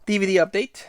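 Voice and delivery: short of breath from asthma. Real, not acted. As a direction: talk between breaths, winded. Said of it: "a little bit out of breath".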